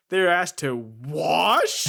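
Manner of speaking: mock outrage.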